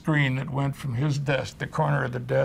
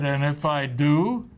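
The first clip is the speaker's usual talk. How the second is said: slow, louder, menacing dare; retold slow challenge; 5 dB louder, slower than usual. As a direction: lean on each word like a threat, mock-tough. Boss challenging him on set.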